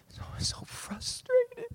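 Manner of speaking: high, strained, drawn-out "frustrated"; exasperated falsetto whine; squeaky frustrated whine. Pretend. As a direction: squeak it out like you're at the end of your rope. Squeaky exasperated word in quote.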